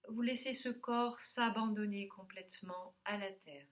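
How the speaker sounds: calm yoga teacher settling the class; guided relaxation. Real, not acted. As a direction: give unhurried instructions with long pauses between phrases. Leads a yoga nidra session.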